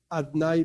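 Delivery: "Adnai" said as "atnai", with the hidden O left out on purpose; deliberately mispronounced. Shown as a demonstration. Teacher avoiding the holy name, says "Adnai" as "atnai". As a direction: clip "Adnai" to two syllables, "at-nai". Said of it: "yo a propósito, repito, lo pronuncio mal".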